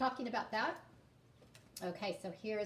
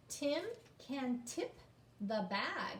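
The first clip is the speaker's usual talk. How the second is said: slow read-aloud; slower than usual. Shown as a demonstration. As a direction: stretch "tip", slow and rising. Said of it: "reading the story aloud".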